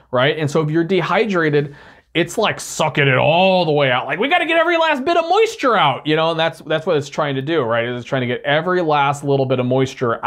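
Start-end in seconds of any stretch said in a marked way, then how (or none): 4.2-6.0 voiced intestine. Voicing the large intestine.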